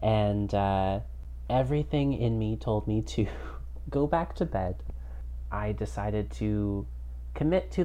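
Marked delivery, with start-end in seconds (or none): 0.0-4.8 tinny headphone mic sound; headphones used as mic. Real, not acted. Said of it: "I'm talking into my headphones".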